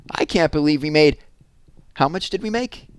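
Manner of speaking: high excited squeal. Acted. Megan squealing at Jessie over the money. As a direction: squeal it like a kid who just got rich. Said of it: "squealed Megan".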